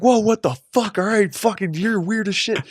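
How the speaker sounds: high, loud, thrown-off exclamation; bully shocked by the guy stripping down; mock startled recoil. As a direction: back away, rattled. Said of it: "the guy's like".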